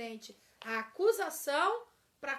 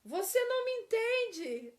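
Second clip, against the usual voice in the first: loud, much higher reproach; accusing complaint; 9 semitones higher, 6 dB louder than usual. Shown as a demonstration. Teacher mimics a quarrelling spouse, loud reproach. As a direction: fling it at them. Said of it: "Não é uma frase comum?".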